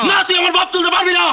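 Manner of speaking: shouting. Acted. Shouting quarrel.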